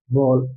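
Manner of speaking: बॉल said with a rounded aw sound, bo-l; demo word. Shown as a demonstration. Teacher shows how to pronounce बॉल. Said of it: "बॉल को कैसे पढ़ेंगे हम लोग".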